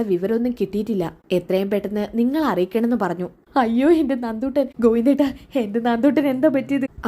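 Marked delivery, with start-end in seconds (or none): 3.6-7.1 put-on higher, panicked cry for her child; a mother's frightened plea; frantic worried mother; anguished mother. Mother hears of daughter's accident.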